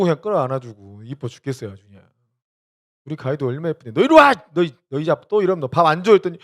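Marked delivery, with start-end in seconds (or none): 4.0-6.1 loud playful threat; mock scold. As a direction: pretend stern, no dinner.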